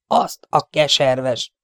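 slow, grinding curse through gritted teeth. A narrator's reading. Amateus curses as the skeleton lands on him, teeth gritted. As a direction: spit it out slowly, teeth clenched. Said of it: "csikorgatta a fogát".

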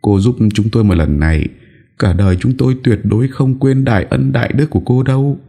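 high, pleading mother's voice; tearful high-pitched entreaty; desperate begging. Acted. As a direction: plead as if your child's life hangs on it. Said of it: "Người mẹ vội vã van nài".

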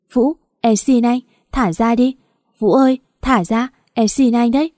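a touch of tearful begging; tearful pleading. Acted. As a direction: beg him to let go while crying. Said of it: "Tôi vừa khóc vừa ôm lấy anh".

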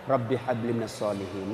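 put-on soft murmured prayer into a child's ear; whispering in ear. Father whispering prayer into sleeping child's ear, soft. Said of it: "bisik-bisik telinganya".

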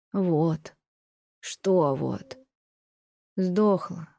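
сникший, тихий голос; виновато выдави слово; упавшим голосом. A narrator's reading. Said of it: "сказал упавшим голосом". (приказчик сообщает барыне о беде, упавшим голосом)

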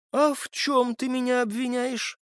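high-pitched, affronted question; indignant challenge. Acted. Accused man confronts the captive, indignant. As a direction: challenge him, voice pitched right up.

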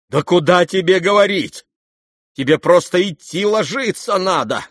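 brusque motherly scolding; scolding matron. Acted. Mother orders the sick youth to bed, brusque. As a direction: send him off to bed.

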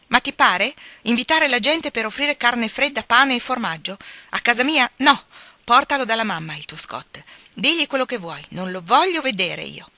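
high, loud tirade in one breath; breathless outburst. A narrator's reading. Meg explodes at John about the cold-meat lunch, furious. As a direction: pour it all out without stopping. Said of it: "le disse tutte d'un fiato".

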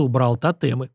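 ordinary delivery

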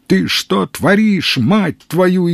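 high, slow, panicked cry; hysterical yell. A narrator's reading. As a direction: shriek at him in disbelief. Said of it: "истерично завопил Калантай".

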